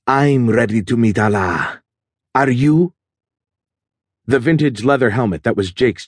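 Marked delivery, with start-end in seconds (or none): 0.0-2.9 menace. A narrator's reading. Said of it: "the menace in the guy's tone".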